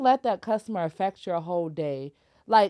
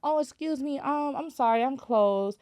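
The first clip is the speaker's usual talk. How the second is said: polite redirection. Shown as a demonstration. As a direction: model a considerate cashier redirecting a customer. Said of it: "demonstrated how she should have handled it".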